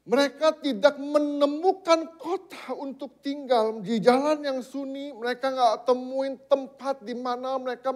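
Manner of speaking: high, loud, drawn-out scripture proclamation; forceful preaching. Real, not acted. Preacher telling the congregation of wanderers without a city, forceful.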